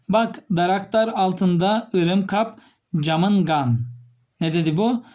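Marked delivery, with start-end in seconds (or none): 0.1-3.9 slow, lightly imitated Kyrgyz; Kyrgyz speech. Shown as a demonstration. Teacher showing students how Kyrgyz sounds, imitated Kyrgyz. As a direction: read out the Kyrgyz example slowly. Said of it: "Kırgızlar söyledi".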